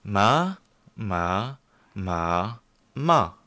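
learner echoing each "ma" tone; student copying the teacher's four tones on "ma"; repeating the four tones. Shown as a demonstration. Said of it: "Par exemple".

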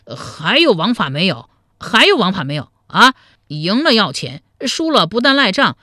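loud, indignant shouting at a cheat; rally the brothers in a rising rage; loud angry tirade against the swindler; furious outburst. Acted. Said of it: "怒不可遏地说".

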